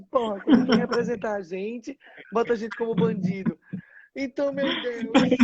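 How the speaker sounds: retold indignant protest, played for laughs; comic mock complaint. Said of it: "Você falou tão engraçado". (reclamação indignada imitada, em tom cômico)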